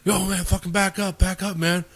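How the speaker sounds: playing the drunk telling the bouncer to back off; imitating a threatening drunk. Drunk guys warning the bouncer, mock tough and high. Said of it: "And they would be like".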